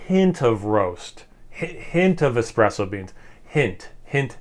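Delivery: each "hint" leaned on and drawn out; slow, weighty "hint" every time; stress on hint. Shown as a demonstration. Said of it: "emphasis on the word hint".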